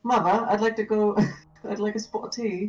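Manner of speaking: hammed-up Cockney with th as v; Cockney accent. Shown as a demonstration. Demonstrating British for a friend, amused Cockney accent. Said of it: "more like a v sound".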